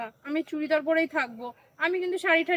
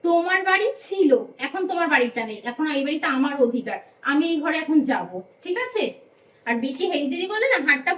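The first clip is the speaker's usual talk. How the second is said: defiant quarrelling; 5 dB louder than usual. Acted. New bride defies mother-in-law.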